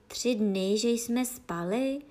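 ordinary delivery, nothing marked

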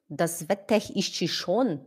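slow, questioning "das Wetter ist schon" as "vetekh isti shon"; puzzled echo. Retold or imitated. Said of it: "A pessoa vai dizer". (eco confuso da pronúncia errada)

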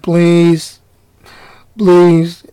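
a hint of a low bored plea; mildly droned please; monotone lifeguard. Lifeguard begs lady to stop, lightly monotone. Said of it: "that monotone voice".

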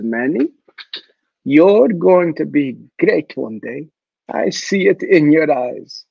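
slow, gentle motherly words; slow and tender, like a caring lunch lady; tender encouragement. Retold or imitated. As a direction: soothe and lift him up.

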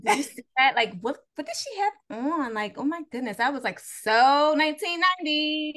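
put-on high, loud valley-girl gossip; Becky. Co-host joining in the impression, Becky voice. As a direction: play up the scandalised airhead. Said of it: "my Becky voice real good".

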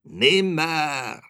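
loud, high raven's croak; harsh bird cry of doom. A narrator's reading. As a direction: croak it out like a raven, drawn out and falling. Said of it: "krächzte da der Rabe".

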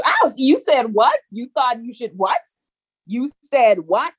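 incredulous, rising mock outrage; offended mama. Mother hearing her child talk back, incredulous. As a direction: play the stunned mother.

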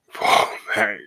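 laughing "fall back". Retold or imitated. Waving his friends away, laughing. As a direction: shoo them off while laughing.

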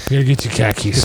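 Boston-style "khakis", insisting; mock Boston accent. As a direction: say "khakis" like a Bostonian's car keys. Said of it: "Boston is the place where".

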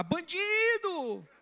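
high, slow drawn-out yell of Bandido; reliving his outburst, yelling high and stretched out; retold shouting. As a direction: pastor yelling at the con man on the street. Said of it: "sem perceber eu comecei a gritar".

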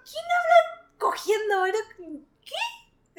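high-pitched mock disbelief; high, incredulous retelling. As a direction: squeal it in shocked disbelief. Retelling her disbelief on a date.

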